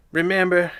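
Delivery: a strained high Patrick that gives out. Acted. Playing Patrick, then giving up on the voice. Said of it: "I can't keep that up".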